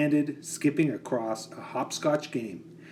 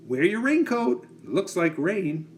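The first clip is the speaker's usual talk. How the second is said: mother's voice; 6 semitones higher than usual. Acted.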